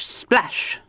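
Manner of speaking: "splash" whispered and falling away. Acted. Mister Grinling splashing as he sinks, whispered. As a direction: let the second "splash" fade into a whisper. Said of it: "splashed Mister Grinling".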